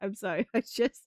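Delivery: apologising through real giggles; real giggling. Real, not acted. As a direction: break up laughing mid-apology. Breaks up at viewer's question.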